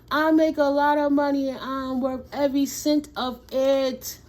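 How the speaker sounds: loud, laughing declaration; gleeful loud affirmation. Shown as a demonstration. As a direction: say it through a laugh. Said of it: "repeats affirmation laughing".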